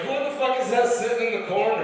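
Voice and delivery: high, mock-indignant question; alarmed wife. Wife spots stranger in bedroom, mock-alarmed disbelief. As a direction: imitate a startled wife, pitch way up.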